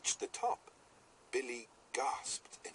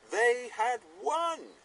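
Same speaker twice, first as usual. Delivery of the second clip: much higher, louder and slow, jubilant; triumphant exclamation; 7 dB louder, slower than usual. A narrator's reading. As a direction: ring it out like a victory cheer. Triumph at the race finish.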